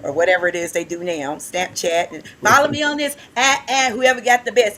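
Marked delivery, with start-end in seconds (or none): 2.4-4.8 high, loud social-media show-off; mock teen influencer. Teacher mocking teenagers trying to be everybody online, hammed-up. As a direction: parody a teen posing with silly noises.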